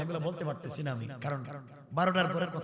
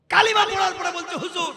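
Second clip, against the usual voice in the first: sudden high, loud burst; high-pitched sermon outburst; raised preaching cry; 12 dB louder than usual. Retold or imitated. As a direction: call it out high to the crowd. Preacher bursts into the retold complaint.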